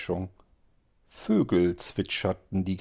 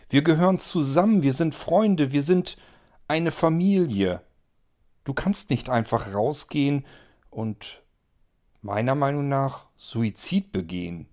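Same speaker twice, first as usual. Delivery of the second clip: higher, louder, fast plea; urgent pleading; 5 semitones higher, 3 dB louder than usual. Acted. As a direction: hold your friend back. Antonio pleading, family. (Antonio fleht Aid höher, lauter und schneller an)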